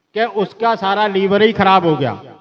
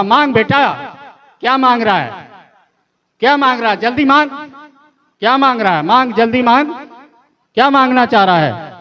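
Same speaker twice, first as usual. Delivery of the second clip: mock holy man; 5 semitones higher, faster than usual. Maulvi beggar grandly offering a wish.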